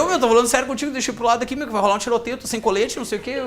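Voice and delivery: mildly acted jittery insistence; nervous pleading. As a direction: keep pleading, nerves showing. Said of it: "só que eu tava nervoso".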